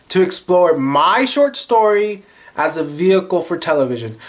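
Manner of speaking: lightly voiced stern, dignified Maya; reading Maya's reply. Voicing Maya Angelou refusing the producer, a hint of stern dignity. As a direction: read her refusal with a touch of grandeur. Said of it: "Maya's like".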